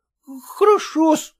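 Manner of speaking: high, reluctant хорошо-с; grudging agreement. Acted. Son-in-law reluctantly obeying father-in-law, high. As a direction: agree through clenched will. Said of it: "скрипя сердце".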